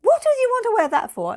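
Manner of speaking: very high, loud, fast mock outrage; imitating an appalled mother; baffled exasperation. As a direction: fire off the question in shrieky disbelief. Retelling mother's baffled objection.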